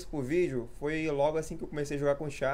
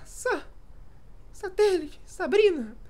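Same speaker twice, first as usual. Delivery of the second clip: much higher squeaky catchphrase; much slower than usual. Shown as a demonstration. Youtuber showing off his catchphrase in a squeaky voice. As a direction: stutter the Sa then pop each word in a tiny high voice. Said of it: "tem o bordão lá".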